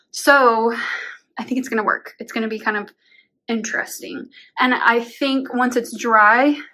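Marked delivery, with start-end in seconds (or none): 4.6-6.6 breathless from climbing the ladder; panting between words; out of breath. Real, not acted. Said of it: "I'm, like, out of breath right now".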